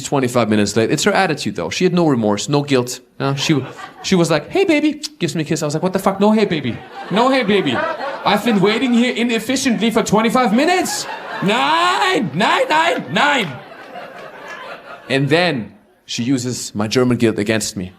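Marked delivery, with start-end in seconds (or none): 4.5-5.0 high, breezy mock "hey baby"; imitating wife. Comic imitating his wife arriving late without remorse. Wife's casual greeting voiced. 5.8-13.5 hammed-up furious German husband shouting; mock outrage. Comic yelling at his late wife, mock German fury.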